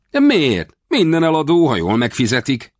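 put-on boy refusing to accept the refusal; insistent boy. A narrator's reading. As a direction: push back, sure everything has a price. Boy pressing to buy.

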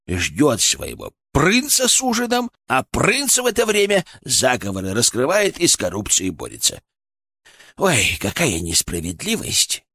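sneering, sarcastic cat voice; mock her fate with a sneer; snooty bored cat. Cat mocks the romance.

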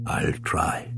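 breathy hushed reply, no voice; whisper. A narrator's reading. Christas whispering back to Ian in hiding. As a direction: breathe it so no one hears.

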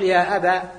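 أبا ending on a long a, "ya aba"; final fatha kept. Shown as a demonstration. Teacher shows the vocative ending in alif. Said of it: "بحذف".

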